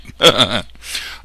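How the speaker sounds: loud, put-on British chortle; mock British laugh. British refusing to trade, mock British laugh. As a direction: cap the British act with a hammed-up laugh. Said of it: "that's my British".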